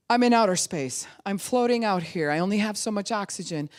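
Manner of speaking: high, rising panic; panicked. Retold or imitated. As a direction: gasp it out like lost in space. Baby's panicked inner voice.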